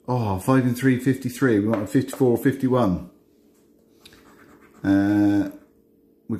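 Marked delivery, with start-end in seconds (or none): 0.1-1.6 bingo caller. Acted. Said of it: "I start doing my bingo calls".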